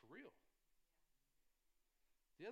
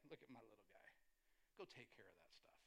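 big dog Butch; 7 semitones lower, 9 dB quieter than usual. Retold or imitated. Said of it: "He's like".

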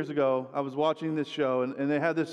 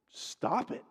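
soft, contained order to stop; quietly blunt therapist; restrained command; 5 dB quieter than usual. Retold or imitated. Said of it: "he starts to get, like, louder".

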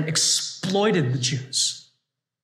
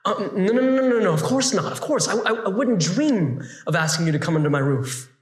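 flustered backtracking. Acted. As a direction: hastily take it back, embarrassed. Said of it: "immediately starts to backtrack".

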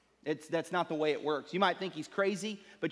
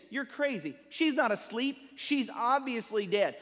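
higher-pitched incredulous mourners; scoffing disbelief; 4 semitones higher than usual. Retold or imitated. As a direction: mimic scoffers who think he's crazy.

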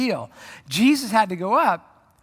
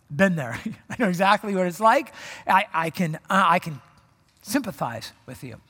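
a hint of a soothing Jesus voice; tender Jesus; 2 semitones lower than usual. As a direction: reassure a struggling friend you've been there. Jesus voiced comforting listener.

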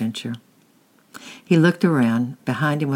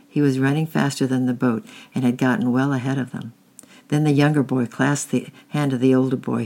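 steady, even read-aloud storytelling; story narration. A narrator's reading. Parent reading a chapter book to children, steady storytelling.

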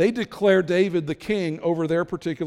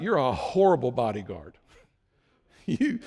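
taunting shout. Acted. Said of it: "David shouts out".

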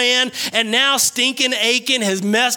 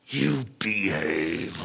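imitating a parent's low, slow, hushed threat; angry gritted teeth; 8 dB quieter, much slower than usual. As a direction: growl it very low through gritted teeth, close to the ear. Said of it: "I would grit my teeth and I would get real close in their ear".

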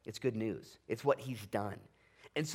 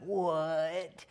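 mock marvel; 2 semitones higher than usual. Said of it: "marvel and be like".

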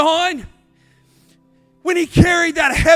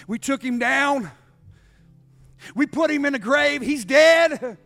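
building gloat. Acted. Hell gloats, building from hush.

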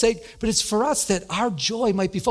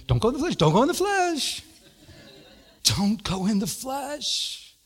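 laughing mock repetition; 4 semitones higher than usual. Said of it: "Then you're like".

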